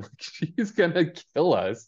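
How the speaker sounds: laughing mock panic, slowed down; half-laughing through the fear. Archie panicking to Veronica about Betty, laughing.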